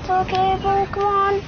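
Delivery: high-pitched urging, pitch creeping upward; will it on through a nervy game moment; strained, high, building to triumph; tense excitement. Real, not acted.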